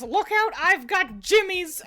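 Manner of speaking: high, loud mock warning yell; Marge Simpson. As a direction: squeal it like Marge fending off attackers. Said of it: "and she goes".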